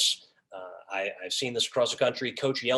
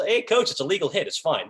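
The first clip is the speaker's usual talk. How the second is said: tone-deaf dismissal; 5 semitones higher than usual. Shown as a demonstration. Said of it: "No, read the room".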